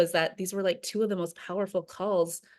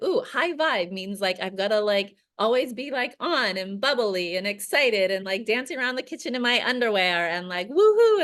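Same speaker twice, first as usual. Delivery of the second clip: higher, building from a chirpy voice to a loud squealed woohoo; mock bubbly; 4 semitones higher, 3 dB louder than usual. Mocking fake high-vibe positivity, building to a squealed woohoo. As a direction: ham up the always-on high-vibe type. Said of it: "in the sense of being like".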